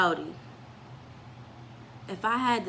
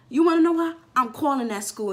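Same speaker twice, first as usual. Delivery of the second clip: high, louder fed-up mom; indignant mom; 5 semitones higher, 3 dB louder than usual. Retold or imitated. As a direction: play mom gearing up to fight. Mom deciding to call school.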